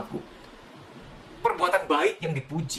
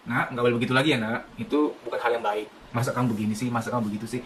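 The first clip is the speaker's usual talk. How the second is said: gentle correction; 5 semitones lower, 4 dB quieter than usual. Shown as a demonstration. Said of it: "tetap begini".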